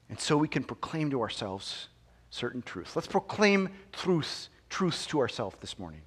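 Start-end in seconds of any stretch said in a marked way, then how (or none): 3.0-6.0 slipping into a light Scottish accent; unplanned hint of Scottish accent. Real, not acted. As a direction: let a Scottish burr creep in. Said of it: "I said that with a Scottish accent".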